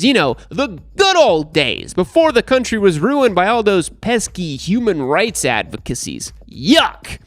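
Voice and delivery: hammed-up sarcastic nostalgia. Presenter mocking nostalgia for the good old days, sarcastic. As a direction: lay on mock longing with emphatic, swooping stresses. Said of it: "I'm being sarcastic".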